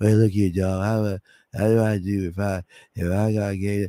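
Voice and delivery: soft, hushed, meek, weak-sounding little voice. Mocking how the questioner sounds: imitating a soft timid voice. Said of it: "That's how you sound".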